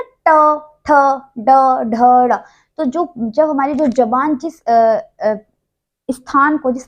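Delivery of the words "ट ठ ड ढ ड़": ट, ठ, ड, ढ, ड़ spaced and slow, tongue to the roof; teacher modelling the ट row; reciting consonants. Shown as a demonstration. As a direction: sound out each retroflex letter apart. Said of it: "आप जब बोलेंगे ना".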